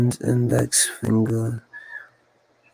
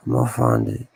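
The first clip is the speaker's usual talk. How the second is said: I'ma find it in a much lower, heavier register; deep put-on voice; 13 semitones lower than usual. Vowing to viewers to find it, deep put-on voice. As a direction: drop the voice way down low on I'ma find it. Repeats line in a new voice.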